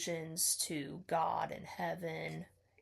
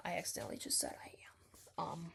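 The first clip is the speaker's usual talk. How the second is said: giggly aside; 10 dB quieter, much faster than usual. Real, not acted. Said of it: "No pun intended".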